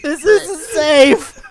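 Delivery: hammed-up slow alarm; slow loud warning. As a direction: stretch the warning out big. Continuing the warning yell.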